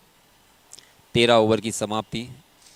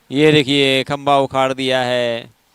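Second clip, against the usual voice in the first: excited cricket commentary; 3 semitones higher, 9 dB louder than usual. Real, not acted. Bowled, stump knocked over.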